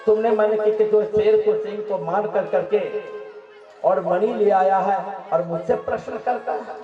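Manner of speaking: acted affront at an intruder; indignant challenge. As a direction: confront the stranger indignantly. Bear king challenges the intruder.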